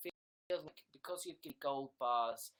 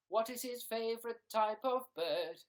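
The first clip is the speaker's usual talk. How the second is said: loud, raised announcer tease; mock announcer; 7 semitones higher, 7 dB louder than usual. Announcer teasing a viewer's question, loud and high. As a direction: pose it to an audience, projected.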